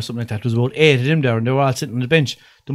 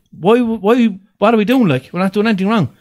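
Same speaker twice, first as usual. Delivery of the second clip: higher, indignant retold protest; protesting innocence; 6 semitones higher than usual. Questioning the guard's order to move, protesting. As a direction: plead innocence in a raised pitch.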